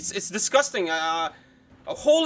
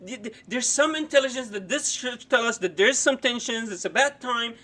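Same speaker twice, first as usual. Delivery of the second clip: mocking the pundit; 3 semitones higher, 3 dB quieter than usual. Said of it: "Look how he talks about".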